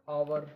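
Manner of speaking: "आवर" starting straight on the vowel; silent H. Shown as a demonstration. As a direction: say "आवर" with no h sound at the front. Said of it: "आवर में भी एच silent है". ("आवर" में एच silent)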